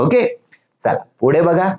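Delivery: ordinary talk, nothing marked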